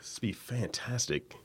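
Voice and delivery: slow whispered dreamy tone. Pretend.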